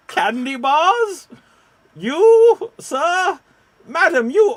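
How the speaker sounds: high, loud hawker's cry; hammed-up seller pitching at the crowd; street vendor calling. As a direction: call out to passing customers, drawn out. Improv selling candy bars to passers-by.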